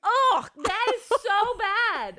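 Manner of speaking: disgusted by smell. Real, not acted. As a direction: drag it out, repulsed by the stench. Sniffing a horrible smell.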